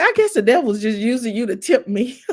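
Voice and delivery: mom's joke delivered through laughter; laughing mom quote. Retold or imitated. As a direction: play mom teasing while cracking up.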